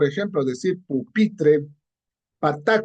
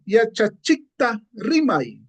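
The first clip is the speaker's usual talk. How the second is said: slow model phrase; 3 semitones higher, slower than usual. Shown as a demonstration. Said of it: "Otro ejemplo".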